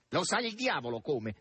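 cheeky, offhand reply; impertinent. Acted. Red-haired man answering Margherita impertinently. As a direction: toss it off with a cheeky shrug. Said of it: "rispose impertinentemente il rosso".

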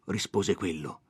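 plain reading voice

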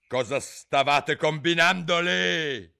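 high, loud, slow demand; angry interrogation. A narrator's reading. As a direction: question them like a cross queen. Angry queen interrogates the gardeners. (domanda adirata)

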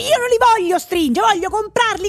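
high, loud, slowed indignant protest; exasperated outburst. Real, not acted. Ranting about the shop assistant's tailoring advice, loud and indignant. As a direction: refuse it hotly, word by word. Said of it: "Si calmi, però".

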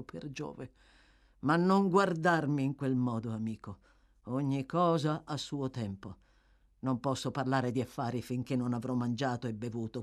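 a low-pitched, casual grumble for a hungry thief; hint of weary thief. Toby demands food before talking business, hint of weary thief. Toby's lines in dialogue.

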